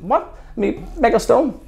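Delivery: high and loud, each word spelled out; incredulous retort. Retold or imitated. Student throws the name at the flustered lecturer, high and loud. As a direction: hammer home the missing name.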